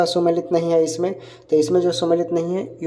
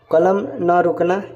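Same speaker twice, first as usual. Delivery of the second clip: each word set apart, slowly; slow, dictated reading; slower than usual. Shown as a demonstration. Teacher reading the option slowly to students, deliberate. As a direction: read out कलम ना रुकना slowly, as if for dictation. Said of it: "तो इसका right answer हो जाएगा".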